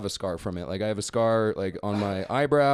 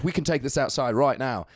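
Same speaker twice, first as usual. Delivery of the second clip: retold challenge in a put-on British accent. British kid challenging him to go outside, imitated British accent. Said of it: "still doing the accent".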